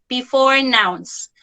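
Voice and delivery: "Before" slowed and set apart; slow, deliberate "Before nouns" for emphasis; stress on before. Shown as a demonstration. Teacher repeating the key rule to kids, stressing "Before". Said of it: "emphasize the word before".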